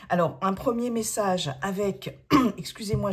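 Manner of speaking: cracking, hoarse voice from a sore throat. Real, not acted. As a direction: voice keeps breaking, clear the throat. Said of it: "j'ai la voix qui déraille".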